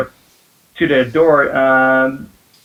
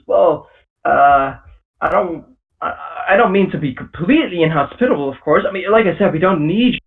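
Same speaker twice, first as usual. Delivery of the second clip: hesitant father; 3 semitones higher than usual. Acted. GM voices father giving in.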